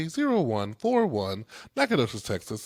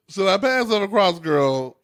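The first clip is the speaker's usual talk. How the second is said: squealing high; 9 semitones higher, 8 dB louder than usual. Pretend. Mock offering cake on camera.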